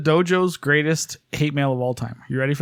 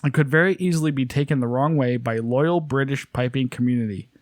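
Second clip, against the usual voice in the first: fake British. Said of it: "fake British".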